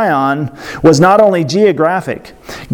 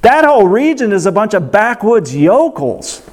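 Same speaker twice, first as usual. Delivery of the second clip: mock disdain, higher and scoffing; sneering city snob; 3 semitones higher than usual. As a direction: sniff at the backwoods like a snob. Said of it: "people were like".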